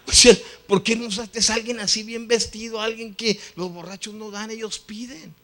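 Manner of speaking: high-pitched protest to God, loud at first; pleading, comic objection; exasperated complaint. Retold or imitated. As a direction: argue upward, starting loud and easing off. Inner complaint to God, acted.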